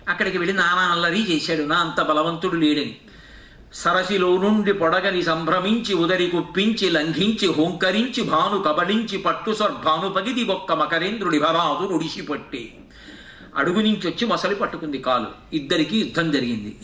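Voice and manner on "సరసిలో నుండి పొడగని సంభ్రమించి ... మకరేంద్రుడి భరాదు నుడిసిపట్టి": metrical poem chant; verse recitation. Acted. Preacher telling the crocodile's attack in verse, metrical recitation. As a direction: roll the verse out in one connected run.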